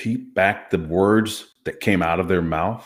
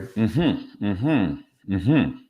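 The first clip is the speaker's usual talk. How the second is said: encourager sounds; 4 dB quieter, much slower than usual. Shown as a demonstration. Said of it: "Nothing more than you going".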